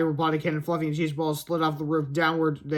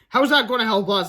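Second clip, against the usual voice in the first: high character voice; 4 semitones higher, 5 dB louder than usual. Acted. Character voice in read story.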